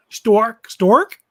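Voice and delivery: rising teasing stork, stalk with an r; mock New England stork question; teasing New England accent. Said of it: "the New England accent".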